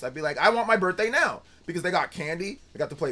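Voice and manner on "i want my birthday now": put-on whiny kid tantrum. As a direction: wail it like a furious little kid. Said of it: "I would just get pissed".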